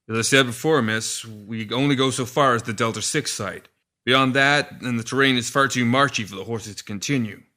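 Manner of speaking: a servant warning the lady plainly; coachman. Acted. Coachman voiced in story.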